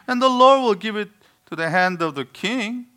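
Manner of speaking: put-on high, sarcastic Yiddish accent. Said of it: "I think of a typical Jewish man".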